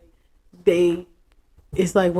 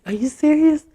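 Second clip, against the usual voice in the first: surprised; 9 semitones higher, 5 dB louder than usual. Retold or imitated. His surprised reply.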